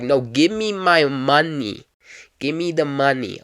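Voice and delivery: drawn-out mock-angry demand; insistent demand. Cab driver demands the fare from passenger, insistent. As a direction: lean hard on it, demanding payment.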